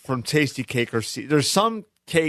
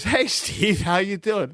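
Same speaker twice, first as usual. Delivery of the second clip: friendly greeting; 5 semitones higher, slower than usual. Retold or imitated. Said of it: "And he goes".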